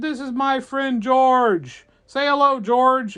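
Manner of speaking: high, loud, slow announcement; belted presentation; shouted introduction. Acted. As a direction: proudly call out to a whole crowd. Rider announces George to crowd.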